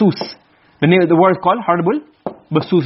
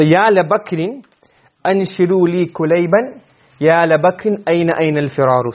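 poem recitation. Shown as a demonstration. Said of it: "let's try and understand the poem".

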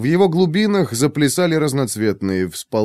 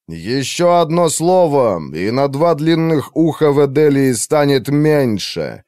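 menacing threat; 4 semitones higher than usual. Acted. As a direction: warn her, one word from killing. Mage threatens the elf. (маг грозит эльфийке расправой)

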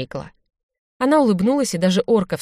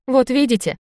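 higher, pleased exclamation; gleeful; 7 semitones higher, 3 dB louder than usual. A narrator's reading. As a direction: crow a little, delighted. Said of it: "обрадовался Винченцо".

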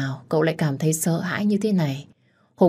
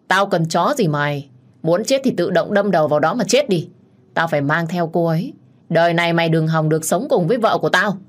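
snarling threat, faster at the end; contemptuous rage. Acted. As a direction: spit the threat at the rival. Đức quát Hùng. (khinh bỉ quát tháo)

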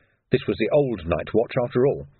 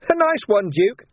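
higher, sneering villain voice; sly thug Carcer; 11 semitones higher, 4 dB louder, slower than usual. A narrator's reading. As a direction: voice Carcer as a grinning menace. Carcer mocking.

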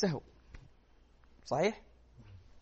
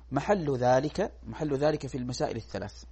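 dictating. Shown as a demonstration. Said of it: "ثم أمليكم".

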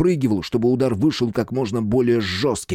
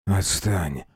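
numb lips; 3 semitones lower, 3 dB quieter than usual. Acted. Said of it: "онемевшими губами произнёс я".

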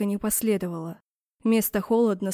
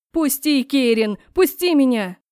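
higher, louder demand to be let go; shouting while held back; struggling outcry; 4 semitones higher, 6 dB louder than usual. A narrator's reading. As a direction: fight free, shouting at him. Struggling against Keir's grip.

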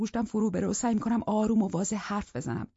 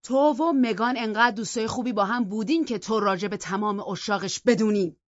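leaning in with a louder, slowing accusation; mild shout; 3 semitones higher, 5 dB louder than usual. Acted. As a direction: drag out the last words at her.

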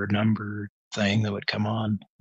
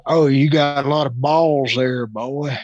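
hint of a stern teacher; drawled rebuke, lightly voiced; mock old teacher; 4 semitones higher, 4 dB louder than usual. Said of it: "And his response was".

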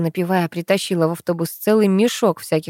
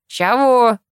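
slightly louder man's call back; distant reply; 4 semitones higher, 4 dB louder than usual. A narrator's reading. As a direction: answer as if from a distant yard. Man calls back from afar. (отклик мужика издалека)

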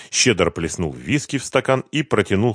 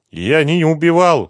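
high, plaintive repeated denial; droning on; 8 semitones higher, 6 dB louder than usual. A narrator's reading. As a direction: keep mumbling your denial, pitched up. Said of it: "продолжал бубнить Лихоносов".

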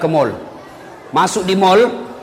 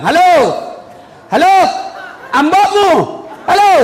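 mock phone holler; 9 semitones higher than usual. Villager yelling hello into a payphone, mock holler. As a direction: holler down the line like a clueless villager.

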